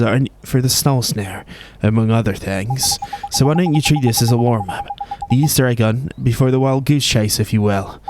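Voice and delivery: lightly voiced Welsh fairy guide; cheeky Welsh lilt, setting the task; a hint of a Welsh accent.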